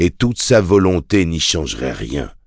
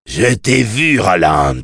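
infernal voice; 2 semitones higher, slower than usual. Acted. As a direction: taunt him like a fiend from hell. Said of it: "lança la voix infernale".

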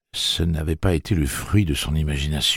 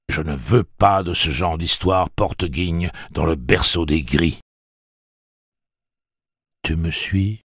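louder angry demand; angry raised voice; 2 semitones higher, 5 dB louder than usual. A narrator's reading. Tic-Tac demanding an answer, raised angry voice. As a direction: lean on him hard.

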